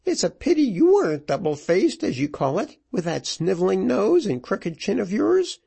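high-pitched, taunting tirade; widow in a rage. A narrator's reading. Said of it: "working herself into a rage".

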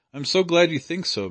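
glad relief. A narrator's reading. Missus Leather thanking Mister Crossley, gladly relieved. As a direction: let the relief spill out. Relieved mother greets kind words.

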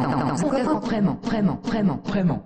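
stuck repeating like a broken record; malfunctioning AI, looping words; glitching robot. Acted. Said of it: "Euh, ça va?".

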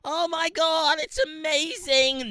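high, loud mock excitement; hammed-up shrieky rave; mock gushing. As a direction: gush like an overexcited tourist, drawing out the end. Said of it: "they're like".

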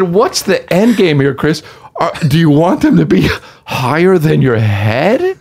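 high, slow, strained with laughter; laughing disbelief. Retold or imitated. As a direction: plead slowly through suppressed laughter. Still cracking up, quoting agents.

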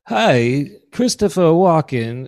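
lightly attempted film-star impression; tentative celebrity impersonation; Christopher Walken. Shown as a demonstration. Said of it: "here's Christopher Walken, just regular".

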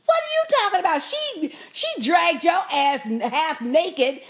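high, indignant imitation of Jason scolding; lightly voiced brother fussing; mock fussing. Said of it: "He's fussing at him".

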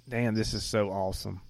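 soft, awed inner thought; hushed amazement. Retold or imitated. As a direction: murmur it in quiet awe. Inner thought quoted while watching.

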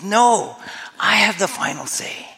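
a forceful, acted-out angry retort; angry defiance. Preacher voices Jesus refusing death's final say, angry defiance. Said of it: "Jesus is furious".

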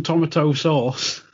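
"tomato" said TOM-ato before "sauce"; odd pronunciation. Retold or imitated. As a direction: imitate an odd "tomato" with a clear "tom" at the front. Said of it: "He says tomato really weird".

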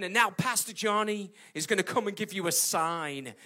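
mild mock fanfare; mock announcer intro. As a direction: build it up like a compere. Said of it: "You know, like this".

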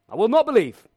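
NOT punched loud; stress on not. Shown as a demonstration. Preacher repeating Thomas, stressing not. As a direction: lean hard on the NOT in "I will not believe". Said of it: "repeats Thomas's line".

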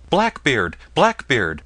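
repeated loud chant of the name; calling out. Acted. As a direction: ring the vault with the name. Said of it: "a score of voices calling".

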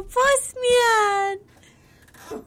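high, loud call to the dog; excited calling out. Acted. Owner greeting his stuffed dog at the door, excited calling out.

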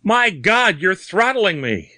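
high, frantic cry falling in pitch; choking panic. A narrator's reading. Bearded man being strangled by unseen hands, choking panic. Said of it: "His voice died out in a choking gurgle".

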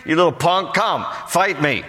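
high sneering bully voice; hammed-up giant's jeer; taunting giant. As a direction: goad the little guy into fighting. Preacher voices Goliath taunting.

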